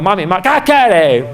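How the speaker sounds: put-on a timid kid calling mom; child voice. A boy timidly calling his mother, childlike.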